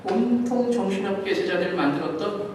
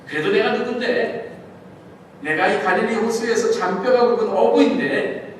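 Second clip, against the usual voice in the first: boastful fisherman; 3 semitones higher, 4 dB louder than usual. Acted. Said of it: "하면서 제자들은".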